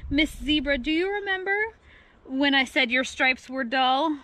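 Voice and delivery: usual speaking voice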